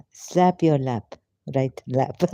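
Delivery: normal talking voice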